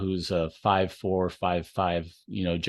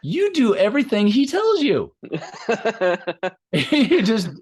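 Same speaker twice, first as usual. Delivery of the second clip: laughing through the line, pitched high and louder; 12 semitones higher, 6 dB louder than usual. Retold or imitated. Coach retelling a friend's teasing line, laughing hard. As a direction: crack up while quoting him.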